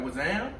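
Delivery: "What's up" slurred into "wuzzam"; New Orleans greeting. Retold or imitated. Repeating his greeting for a coworker, "What's up" as "wuzzam". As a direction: say "What's up" as one word, "wuzzam". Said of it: "Z A M".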